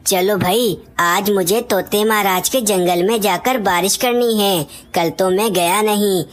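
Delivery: a big cloud deciding to go rain; lightly voiced cloud.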